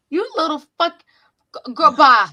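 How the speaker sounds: high, loud disbelieving yelp; shocked outburst. Real, not acted. Mom reacts to creepy daughter.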